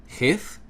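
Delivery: chith said high with a rasping throaty ch; strong guttural. Shown as a demonstration. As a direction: scrape chith from the back of the throat. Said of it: "It's a strong guttural sound".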